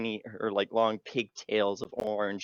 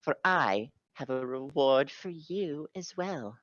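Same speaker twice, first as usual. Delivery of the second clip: warm regal boom; 5 semitones higher than usual. Acted. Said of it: "Titania's like".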